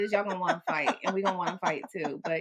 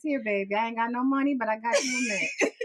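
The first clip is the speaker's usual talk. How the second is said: put-on old church lady; 3 semitones higher, 3 dB louder than usual. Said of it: "Now the kids got some mints".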